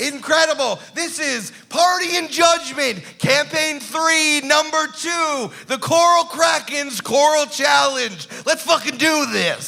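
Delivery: high hype-show announcer. Acted. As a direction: announce the title like a game show. Episode title announcement.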